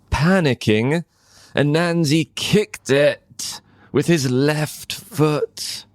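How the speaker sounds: storyteller catches Anansi's panic; rising panic. A narrator's reading. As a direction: tell it as the panic builds. Narration rises in panic.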